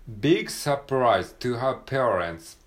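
teacher reading aloud; slow model reading. Shown as a demonstration. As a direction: say each word slowly for the class. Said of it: "はい".

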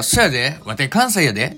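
lightly hammed-up Kansai dialect; a playful Osaka brag, lightly voiced; mock Kansai dialect. Answering a new coworker in a light mock Kansai accent. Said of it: "めっちゃそれやばい".

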